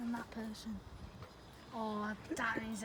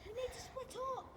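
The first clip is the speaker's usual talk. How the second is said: whispering; 10 semitones higher, 12 dB quieter than usual. Real, not acted. Hissing instructions while hiding.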